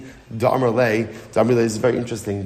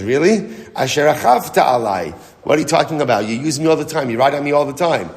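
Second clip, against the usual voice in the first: raised, mock-indignant donkey comeback; 3 semitones higher, 4 dB louder than usual. Donkey telling Bilam he rides it constantly, indignant. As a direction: argue back in disbelief.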